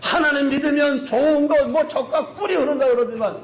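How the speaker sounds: high, acted-out protest; heated mock complaining; resentful outcry. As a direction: heap up grievances like an indignant crowd. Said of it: "막 원망이 막 원성이 막 하늘을 찌릅니다".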